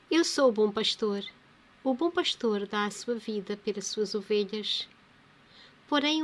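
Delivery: lightly proclaimed Gospel reading; measured reading aloud with emphatic phrase openings; scripture reading. Acted. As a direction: read the parable out firmly to listeners.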